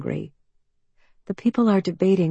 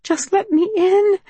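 pleading thought; 4 dB louder than usual. A narrator's reading. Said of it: "she thinks".

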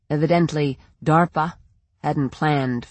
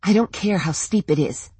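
snapping; 2 semitones higher than usual. Acted. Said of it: "Linda snapped".

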